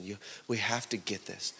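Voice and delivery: low, very soft urging; quiet, earnest plea to the congregation; hushed appeal. Real, not acted. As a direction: say it low and under your breath. First, hushed take of repeated appeal.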